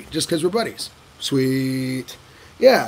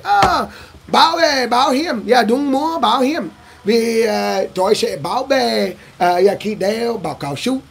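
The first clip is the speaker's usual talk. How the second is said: playful name pitch; 3 semitones higher, slower than usual. Retold or imitated. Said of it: "I'll throw that out".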